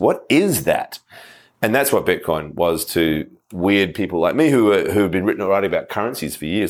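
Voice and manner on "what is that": heavy weight placed on the word is. Explaining the question behind any good story: stress on is. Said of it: "the emphasis on the word is".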